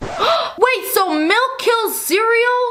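very high, drawn-out shocked gasp. A streamer reacts to a cereal killer joke, gasping in shock.

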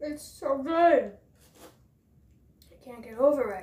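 speaking with mouth full of food. Tasting shrimp spring rolls for viewers, talking with mouth full. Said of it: "I know I shouldn't be talking with my mouth full".

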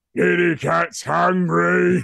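very loud, raspy, rough schoolyard bully voice. On stream, asked by a viewer to say it in the bully's voice. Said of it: "could you do Kitty Cat's Hungry in the voice of the bully".

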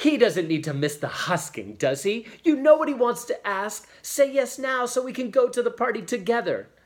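eager, impulsive outcry, very high and rising. A daughter urges her father to agree, cried impetuously. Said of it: "she cried impetuously".

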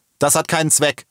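high, bellowing roar as through megaphone. A policeman with a megaphone answers someone in the crowd, bellowing. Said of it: "brüllte der Polizist mit dem Megafon".

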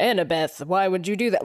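ordinary talk

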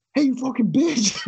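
acted, shrill, high, furious all-out scream. Telling a story, the speaker reenacts confronting a woman who hit his wife's car: retelling own screaming. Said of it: "fucking screaming at her".

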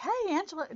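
loud, very high-pitched. Retelling how an earlier video began, imitating own loud greeting. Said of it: "and I'm, like, really loud".

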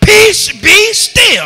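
forceful, firm, authoritative, commanding tone. Teaching how to speak when commanding something: forceful, firm command. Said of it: "you have to speak with authority like you're telling it to get in its rightful place".

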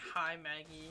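irritated, annoyed, mad-sounding. Repeating another speaker's greeting back to them: imitating someone sounding mad. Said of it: "mad at her when you said that".

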